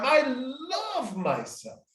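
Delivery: slow, tender self-affirmation said with a smile; slow smiling "love myself". Shown as a demonstration. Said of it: "And I repeat that a second time".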